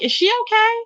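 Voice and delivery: high, startled question; as if you can't believe what you're seeing; alarmed disbelief. Retold or imitated. Streamer reacts to a woman crying for a hamburger, high and startled.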